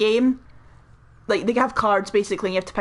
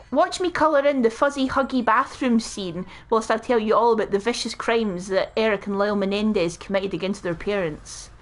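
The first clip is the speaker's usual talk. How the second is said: true-crime podcaster; 3 semitones higher than usual. Acted. Host opening a crime episode, true-crime podcaster voice. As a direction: intone the date like a grave case opening. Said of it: "is that your true crime podcaster voice".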